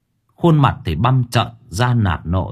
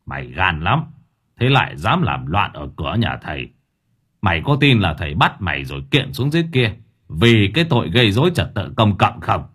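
stern master; 4 semitones lower than usual. Acted. Master Phong holding up the ghost, low and menacing. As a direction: lean in and threaten calmly.

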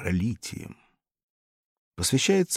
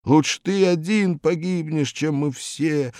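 pleading; 7 semitones higher, 6 dB louder than usual. A narrator's reading. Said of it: "молили его ученики".

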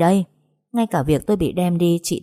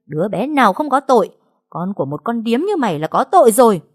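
higher, louder furious spit; shrieking hiss; 5 semitones higher, 4 dB louder than usual. Acted. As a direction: lash out at the pregnant girl. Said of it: "rít lên". (chị Hạnh rít lên, căm ghét)

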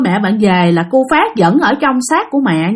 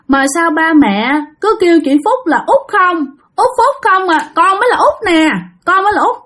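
put-on high, whiny child's complaint; sulky child reproaching; 4 semitones higher than usual. Spirit child scolding the father for being abandoned, high whiny complaint. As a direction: reproach your parents like a hurt little kid. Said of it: "hờn mát, trách móc".

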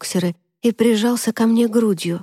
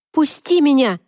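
shouting; 6 semitones higher than usual. A narrator's reading. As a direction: yell to be let go. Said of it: "закричала я".

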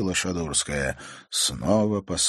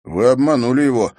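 reproachful; 7 semitones higher, 11 dB louder, faster than usual. A narrator's reading. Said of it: "осуждающе сказал Матвей".

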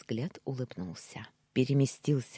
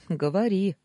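higher, lively smiling go-ahead; 6 semitones higher, 6 dB louder than usual. A narrator's reading. Husband inviting his wife to speak, smiling. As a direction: say it through a smile. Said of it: "улыбнулся я".

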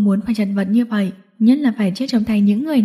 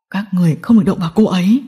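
fast, restrained acted shout; rapid angry order; stern yell; 3 semitones lower, faster than usual. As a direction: bark a warning at the captors, quickly. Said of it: "anh quát".

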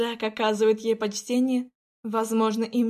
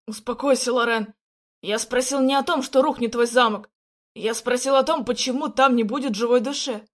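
louder, insistent reassurance; firm raised voice; 4 dB louder than usual. Acted. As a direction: talk her down firmly. Jack calms her loudly.

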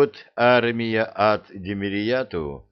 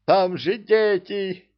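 alarmed shout; 11 semitones higher, 4 dB louder, slower than usual. A narrator's reading. King pleading amid battle.

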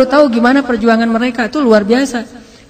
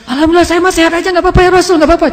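brushing off her wounds; 6 semitones higher, faster than usual. Acted. Wounded woman reassures the Prophet.

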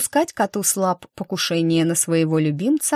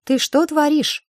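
high, loud indignant question; 10 semitones higher, 3 dB louder than usual. A narrator's reading. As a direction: demand it, outraged. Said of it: "возмутилась я". (возмущённо, высоко и громко)

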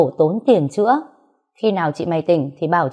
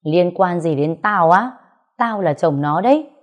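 angry retort. Acted. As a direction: fire it back at him with contempt. Narrator shouts back in quarrel.

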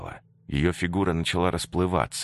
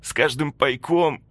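higher, halting guilty voice; ghost's confession; 9 semitones higher, 3 dB louder than usual. Acted. The ghost Antonina confesses why she never opened the door, halting and guilty.

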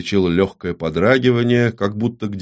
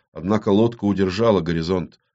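usual speaking voice

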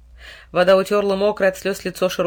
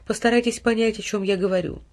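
plain reading voice

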